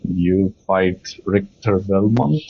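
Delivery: ordinary talk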